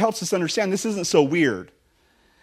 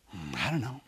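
much softer, mumbled shrug; imitating a stumped young couple; a couple unsure of the answer, mumbled very softly; clueless couple; 5 semitones lower, 14 dB quieter than usual. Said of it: "And I say".

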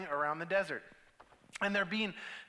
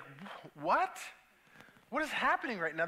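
baffled surprise; 2 semitones higher than usual. Retold or imitated. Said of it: "And it's like".

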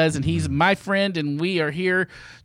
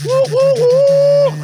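much higher, louder woo cheer; 9 dB louder, much slower than usual. Real, not acted. Host whoops at the friend's new take, much higher and louder. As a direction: whoop like a crowd.

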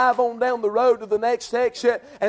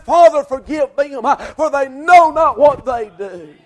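Jesus from the cross; 4 semitones higher, 8 dB louder than usual. Acted. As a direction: draw out each word as a dying plea.

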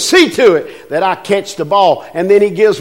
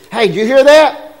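higher, louder alarmed question; wife alarmed; 6 semitones higher, 5 dB louder than usual. Retold or imitated. Wife waking her husband, alarmed at a night noise. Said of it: "And Lynn will say".

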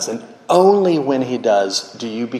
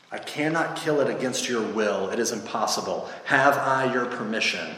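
lightly voiced angel, softer; solemn angel; 6 dB quieter than usual. Angel seeks the ghost's permission, soft and solemn. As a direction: state it quietly and ask formally.

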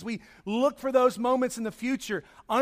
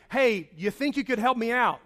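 casual ask. Retold or imitated. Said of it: "this was not a".

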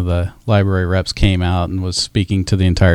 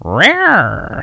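high, bright punchline; spring the punchline; 11 semitones higher than usual. Acted. Dad joke punchline.

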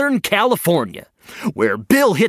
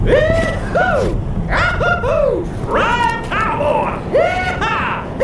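cowboy whoops; much slower than usual. Acted. Bill riding the tornado.

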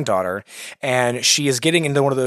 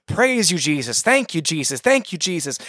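imitating glory noises; 3 semitones higher than usual. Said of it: "she's making all kinds of glory noises".

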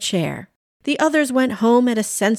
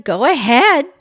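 louder, higher, put-on nonchalance; breezy go-ahead; 5 semitones higher, 7 dB louder than usual. A narrator's reading. Pam hiding jealousy from John, breezy go-ahead. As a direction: wave him off a bit too loudly.

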